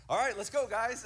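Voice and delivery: loud, high rallying call; coach shout. Retold or imitated. Tough coach breaking an awkward moment, calling his team out loudly.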